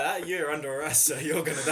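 loud, playful officer's threat; mock arrest. Investigator arresting the meddling blacksmith, loud mock threat. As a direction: pounce with an over-the-top arrest.

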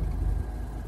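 short, breathy laugh under the breath; quiet little puff of laughter; soft chuckle. A narrator's reading. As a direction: let out a small, low laugh. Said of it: "He starts laughing".

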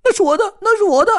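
very high, loud, fast squeal; frantic squirrel squeal; squirrel shrieking. Acted. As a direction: shriek like a furious little squirrel. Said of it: "松鼠尖叫".

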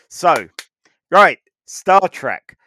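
loud, slow, emphatic refocus; loud reset. Real, not acted. Host hauling the podcast back to Star Trek, loud and slow. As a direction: drag the show back on track. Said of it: "wrenching the show back on topic".

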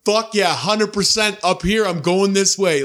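slow, high cocky taunt; mock taunt. Taunting the driver and son beside him, slow cocky dare. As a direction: drag it out, daring them.

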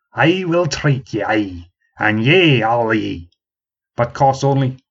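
put-on slow, expansive offer in a country accent; old man offering to the crowd, rustic accent; generous offer. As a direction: spread the offer round the room grandly. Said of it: "he bowed his head gently".

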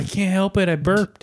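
burpy voice after a burp; talking while burping. Real, not acted. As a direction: speak right after burping. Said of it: "Stop burping".

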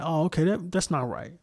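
soft, mildly concerned reply; empathetic. Acted. Speaker models how people could react to police violence, empathetic. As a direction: let it drop softly in sympathy. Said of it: "have some empathy".

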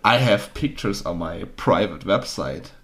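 sleazy English spam message voice; spam bot voice. Retold or imitated. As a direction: read it like a shady bot message. Reading out a spam DM.

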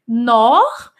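slow spelling out of "nor" and "est"; slow dictation. Shown as a demonstration. A teacher dictating the spelling of nord-est slowly. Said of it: "mas não fala nordeste".

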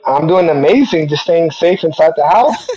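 fuzzy, distorted phone line. Real, not acted. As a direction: sound crackly over a bad line. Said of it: "you sound a little distorted".

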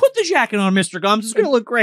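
high, sing-song put-on voice; coaxing voice. The speaker telling Mr Gums to put the jacket on, high coaxing. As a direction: coo it at him.

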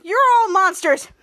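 high, loud accusing cry; mock outraged cry. Volt yells at the villains in high mock outrage. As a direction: yell it at the villains in cartoon outrage.

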